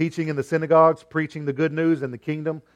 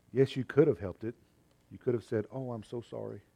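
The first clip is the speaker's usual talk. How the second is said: put-on soft, hushed little boy fading almost to nothing; a hurt child murmuring as he leaves; low voice; 10 dB quieter than usual. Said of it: "he said in a low voice".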